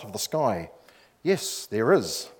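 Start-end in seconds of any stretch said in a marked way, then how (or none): 1.2-2.3 slow, lightly voiced voice from the sky; a hint of calm, powerful deity. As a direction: answer with measured, understated authority. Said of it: "A calm, powerful voice came out".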